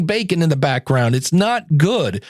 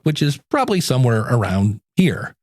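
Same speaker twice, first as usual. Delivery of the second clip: lower, everyday conversational pitch; normal talking voice; 5 semitones lower than usual. Shown as a demonstration. Podcaster demonstrating his off-air register, lower normal voice. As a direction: drop down to your ordinary talk. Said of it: "talk like I normally talk".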